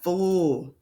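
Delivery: "fl" as a held blend, f sliding into l; blended sound. Shown as a demonstration. Teacher showing the first sound, blend drawn out. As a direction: hold the blend "fl" without finishing the word. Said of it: "So we have".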